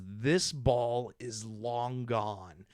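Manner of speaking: slow, drawn-out mock announcer; sports announcer call. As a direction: stretch it like a baseball broadcaster. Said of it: "for the home run call says".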